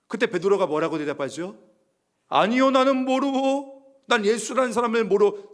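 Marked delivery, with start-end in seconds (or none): 2.3-5.5 겁먹은 부인. Retold or imitated. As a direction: cry out denying in fear. Peter denies Jesus. (높고 느리게 겁에 질려 외치는 부인)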